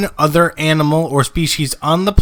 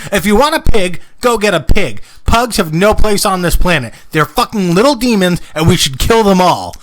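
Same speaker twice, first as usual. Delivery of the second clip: angry rant; 3 semitones higher, 4 dB louder than usual. Real, not acted. Ranting against pugs.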